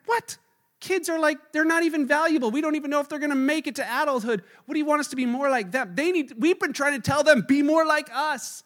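high, loud, fast disbelief; incredulous disciples. Retold or imitated. Disciples objecting to Jesus about kids, incredulous. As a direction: squawk in disbelief at the idea.

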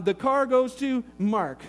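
slow, deliberate will reading; reading a will aloud. Acted. Brother-in-law reads the will to the family, slow and deliberate. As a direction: read out the bequest slowly, line by line.

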